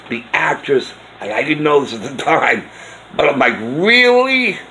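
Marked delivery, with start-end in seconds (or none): 3.6-4.6 high surprised Really; sudden high-pitched disbelief. Retold or imitated. Surprised reaction.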